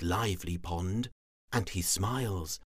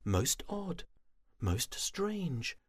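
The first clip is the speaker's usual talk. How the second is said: wondering; 5 semitones higher, 3 dB quieter than usual. Acted. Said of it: "she thought".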